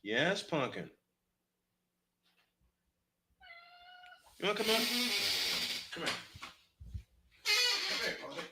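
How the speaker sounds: soft, tender coaxing; talking to cat. Real, not acted. Calling his cat Pumpkin up to him, soft and tender. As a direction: coax the cat up gently.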